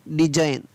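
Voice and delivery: डिजाइन said as dizain with no g; डिजाइन without the g; silent g. Shown as a demonstration. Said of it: "जी को नहीं पढ़ा गया".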